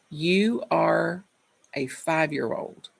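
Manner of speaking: calm after a pause. Retold or imitated. Mother pausing to speak kindly to her son, calm. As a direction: choose patience, say it evenly. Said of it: "And she paused".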